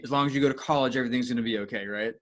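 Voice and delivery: mildly sarcastic mock reassurance. Real, not acted. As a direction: reassure as if you don't believe a word of it. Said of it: "I'm being sarcastic".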